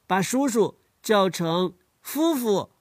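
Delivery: slow, 叔叔 said the Lanzhou way, like 夫妇; Lanzhou pronunciation. Shown as a demonstration. Child explains Lanzhou sound swap, slowly. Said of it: "比方说".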